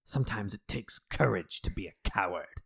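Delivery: lightly voiced lawyer, grave and pleading; a hint of a solemn lawyer gripping his lapels; half-hammed speech about cowardly courage; mock earnest lawyer. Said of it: "grabs him by the lapels and is like".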